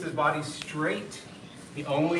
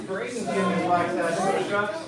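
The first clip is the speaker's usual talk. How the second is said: raised voice, cheering a student on; called-out praise; 4 semitones higher, 5 dB louder than usual. Real, not acted. Coach cheers Braden's push-ups over the count, calling out.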